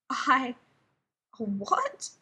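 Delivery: croaked, voice cracking; a hoarse croak of shock. A narrator's reading. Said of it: "croaked John".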